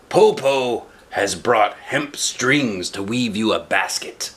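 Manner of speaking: sly wolf. Acted. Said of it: "the wolf said".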